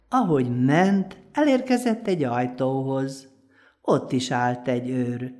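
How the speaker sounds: put-on lively folk-tale narration for children; storytelling voice. A narrator's reading. Storyteller telling children a folk tale, lively narration. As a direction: tell it like a bedtime tale to little ones.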